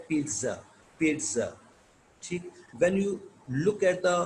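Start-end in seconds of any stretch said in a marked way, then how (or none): 0.1-1.5 पिज़्ज़ा as "peet-sa", said twice with falling tune; TS pronunciation. Shown as a demonstration. Teacher answers what sound it makes, TS pronunciation. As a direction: repeat पिज़्ज़ा with a ts for the double Z. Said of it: "इसका sound क्या बनता है?".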